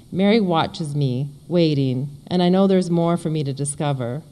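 measured read-aloud storytelling; story narration. Acted. Author reading a ghost story to an audience, measured narration. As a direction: read the passage out evenly, phrase by phrase.

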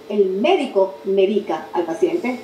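slow, each word spelled out for the class; "médico" and "medica" carefully set apart; slow careful reading. Shown as a demonstration. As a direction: read it out slowly as a model sentence. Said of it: "y voy a decir".

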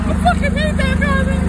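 very high, loud put-on screech; screeched rant. Wilbur screeching with rage about the garbage. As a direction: shriek it like a cartoon freakout.

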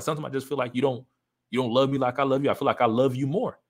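put-on a calm, hurt confession to his girlfriend; said calmly. Confessing to his girlfriend, calm and hurt. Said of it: "I said it first calmly".

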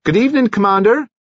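high, quick cheery greeting; brisk, lifted calling voice; bright call. A narrator's reading. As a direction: hail him brightly from a distance. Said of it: "she called out brightly".

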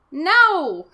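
shouted no. Acted. Dad shouts no, joke.

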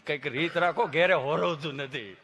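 low, slowing complaint after a stuck start; imitated tongue-tied patient; stammering friend. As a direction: grumble it out past the stutter. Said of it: "જીભ જલાય, સોંટે અટકે".

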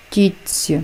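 «тітці» with тц as one long soft ts. Shown as a demonstration. Teacher gives an example of the rule, long soft ts. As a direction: hold the ts in «тітці», softened. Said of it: "вимовляється як довгий".

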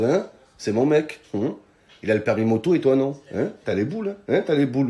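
put-on smug girlfriend taunt. Biker's girlfriend taunting a driver at a red light, smug and soft. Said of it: "genre en mode".

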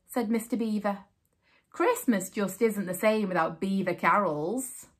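story narration. A narrator's reading. Reading picture book aloud.

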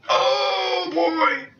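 put-on high squealed falsetto oh boy; falsetto cry. Game moment exclamation.

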